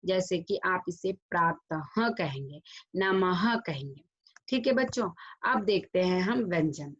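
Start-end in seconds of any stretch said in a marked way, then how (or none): 1.1-2.1 प्रातः ending in a separate "ha"; visarga aha ending. Shown as a demonstration. Teacher demonstrating the visarga, "ha" ending. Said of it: "अह का उच्चारण होगा". 3.0-3.6 नमः said slowly with a final "ha"; visarga aha ending. Shown as a demonstration. Teacher demonstrating the visarga, "ha" ending. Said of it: "अह का उच्चारण होगा".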